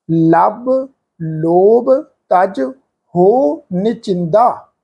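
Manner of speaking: very slow, word by word; slow scripture recitation. Shown as a demonstration. Teacher reciting another scripture example for the sangat. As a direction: recite it slowly and reverently. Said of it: "ਮਹਾਰਾਜ ਦੀ ਬਾਣੀ ਦੇ ਵਿੱਚੋਂ ਸ਼ਬਦ ਪੜ੍ਹਦੇ ਹਾਂ".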